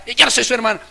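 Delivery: loud, high huffy retort; a sister stamping her foot; sulky angry sister. Retold or imitated. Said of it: "Están bravas". (hermana brava, aguda y fuerte)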